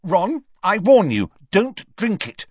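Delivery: high, loud, alarmed warning; anxious girl raising the alarm. A narrator's reading.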